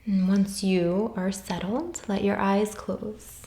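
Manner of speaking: calm, unhurried meditation voice with long pauses; guided meditation. Real, not acted. Yoga teacher guiding listeners through soul questions, calm meditation voice. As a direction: gently guide them inward, leaving space after each phrase.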